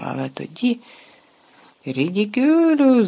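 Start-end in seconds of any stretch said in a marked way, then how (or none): 1.8-3.1 high, loud, slow roar of the spell. Acted. Ron facing the giant spider, roaring the spell. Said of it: "заревів Рон".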